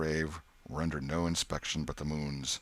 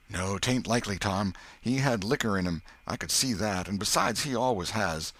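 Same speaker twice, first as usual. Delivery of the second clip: put-on higher boyish, anxious voice; scared Huck; 4 semitones higher, 3 dB louder than usual. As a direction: voice a worried country boy. Huck reasons about Potter.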